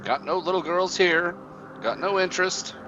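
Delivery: high, impatient hag voice; cranky old witch. Acted. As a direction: snap like an annoyed crone.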